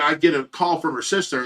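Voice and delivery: normal talking voice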